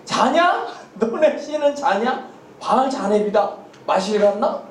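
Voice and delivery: laughing, teasing jeer at the rival prophets; mocking taunt. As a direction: taunt them with a chuckle, half-hearted mockery. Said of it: "막 이렇게 놀리는 거예요". (웃으며 놀리는 조롱조)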